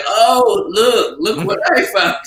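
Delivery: high, hammed-up "oh, look" of fake discovery; mock surprise. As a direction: act like you just stumbled on it. Suggesting a fake discovery line.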